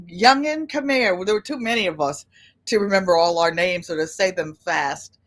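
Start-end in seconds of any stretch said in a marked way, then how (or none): 0.1-1.2 put-on grandma calling the kids. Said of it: "She used to call us youngins".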